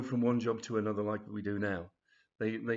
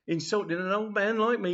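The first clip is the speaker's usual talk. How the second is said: loud, high indignant protest; acted offended grandad tirade; outraged old man; 9 semitones higher, 6 dB louder than usual. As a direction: scold the youngsters loudly. Grandad threatens the two collectors.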